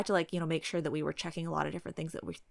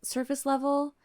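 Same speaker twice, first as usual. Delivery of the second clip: Karen voice. Acted. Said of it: "the Karen routine".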